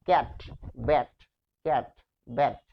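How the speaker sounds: ক্যাট, ব্যাট with short, open æ vowels; each vowel in ক্যাট and ব্যাট like English cat; open "æ" sound. Shown as a demonstration. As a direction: list ক্যাট, ব্যাট as crisp pronunciation examples. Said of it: "এরকম আসবে".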